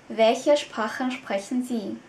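slow, clear repeat; slow model sentence. Shown as a demonstration. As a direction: model it again slowly.

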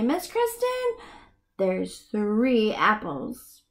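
put-on child answering. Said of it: "you can look at these and say".

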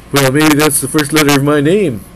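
hammed-up impression, pushed loud; a singer. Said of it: "a singer's like".

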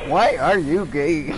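slow mock robot reading; a hint of a synthetic voice; imitating the text-to-speech voice. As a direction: copy the computer voice, dragging each word. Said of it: "It's the way it says it".

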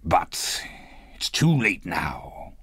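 slow, hesitant, resigned; regretful mutter. A narrator's reading. Scrooge gives up his wish, regretful mutter. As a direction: let the regret weigh each word down. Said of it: "Scrooge muttered".

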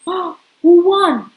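gasp, then a loud eager question; excited suspense. Real, not acted. Reader to child asking who won, loud and eager. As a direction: build the thrill of the race.

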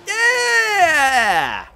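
high triumphant yell; real victory whoop; victory shout. Real, not acted. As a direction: cheer like you just won. Celebrating finishing the race.

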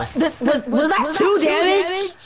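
laughing disbelief. Real, not acted.

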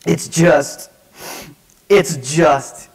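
halting, choked-up teenage imitation; imitated sobbing. Crying teen trying to explain himself, mock sobbing. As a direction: get stuck on the words as if sobbing. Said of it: "just sobbing".

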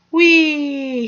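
high, loud gleeful whee; a hawk looping in the wind, thrilled; excited cry. A narrator's reading. Hawk looping in the wind, gleeful loud cry. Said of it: "he cried".

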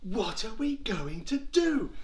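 high, lightly panicked wail; a touch of helpless worry; mild acted dismay. Frightened Israelites voiced in the story.

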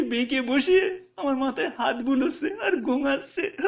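a poor mother lightly voiced, recounting her loss with a touch of tears; grieving village mother. Mother telling the teacher about her daughter, gently tearful. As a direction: let the village mother's grief seep through, understated.

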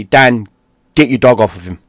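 mild mock yell, fairly loud; retold scream. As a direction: call out like a screaming dad, held back. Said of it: "he's screaming at me".

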